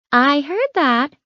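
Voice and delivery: high, slow playful tease; teasing. Acted. Nurse teasing the patient about the hospital food. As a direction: needle him playfully. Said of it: "Marta teased".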